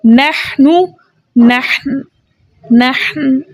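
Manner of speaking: नहनु then नहन with a stop on न; word drill demo. Shown as a demonstration. Teacher drilling the word for students. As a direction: drill the word and its pause form. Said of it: "कैसे हम पढ़ेंगे".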